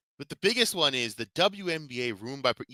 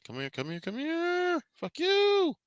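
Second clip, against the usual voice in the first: calling out; 4 dB quieter, slower than usual. Real, not acted. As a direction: shout it at something across the room. Calling out, then swearing at it.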